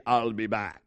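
put-on low, action-hero accent; deep action-star impression; Schwarzenegger. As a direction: drop low for the movie catchphrase. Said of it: "before Schwarzenegger ever even thought".

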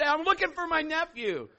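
high, loud pleading explanation; acted exasperated self-defense; flustered protest. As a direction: protest your innocence at the top of your voice.

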